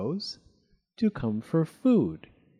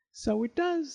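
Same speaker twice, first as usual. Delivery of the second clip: high, lightly sweet agreement; pleasant smile; 14 semitones higher than usual. A narrator's reading. Funny Thing admits children are unhappy, smiling pleasantly. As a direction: answer pleasantly through a smile, pitched well up. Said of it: "smiling pleasantly".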